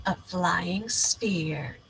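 slow unvoiced whisper. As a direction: reveal it in a slow hush. Dramatic whispered reveal.

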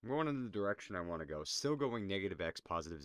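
loud and fast, determined. Real, not acted. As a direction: declare it loudly, rushing.

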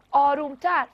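آرومتر said loudly and sharply to silence the crowd; loud hush. A narrator's reading.

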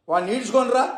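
mild anger, an order to drag him in; angry command. Acted. Baba orders his devotee brought, mildly angry. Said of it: "బాబా కోపంతో".

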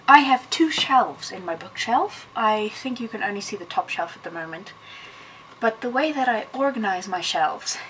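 breathless after running upstairs; out of breath, catching air. Real, not acted. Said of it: "sorry, I'm out of breath".

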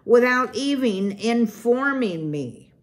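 sputtering outrage. Acted. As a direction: huff with wounded pride. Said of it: "Lungworth sputtered".

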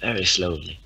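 drawn-out words, falling away; slow emphasis. Shown as a demonstration. Player joking about slow progress, slow and drawn out. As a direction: stretch out each "very" slowly. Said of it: "we're going slowly".

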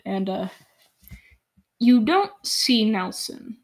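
usual speaking voice

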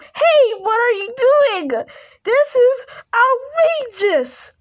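a kid voicing a toy who's outraged. Toy figures quarrel over popsicle.

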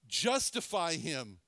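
slow, weighty pronouncement of "Justify him"; "Justify him" drawn out as a solemn ruling; God the Father pronouncing. Acted. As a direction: declare it like a verdict from the throne. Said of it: "God the Father turns and says".

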